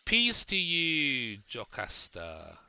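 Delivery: a hint of a strict uncle who still cares; austere caring uncle. Druid greeting the girl like an austere but caring uncle. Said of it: "He now sounds like an austere, austere but caring uncle".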